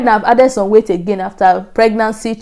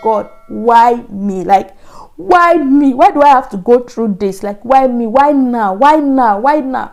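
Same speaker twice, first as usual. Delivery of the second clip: despairing plea; 2 semitones higher than usual. Retold or imitated. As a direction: ask God why, slowly, in mild despair.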